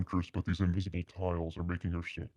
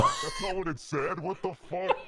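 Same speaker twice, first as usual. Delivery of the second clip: shocked; 12 semitones higher, 3 dB louder than usual. Real, not acted. Reacting to the misread line.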